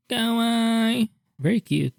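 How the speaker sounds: squealing high kawaii; excited anime fan. Real, not acted. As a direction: gush like a fangirl. Gushing over cute art.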